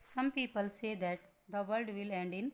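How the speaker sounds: कविता की पंक्ति बहुत धीरे पढ़ते हुए; slow poem reading. Shown as a demonstration. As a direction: read the poem line very slowly. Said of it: "explanation".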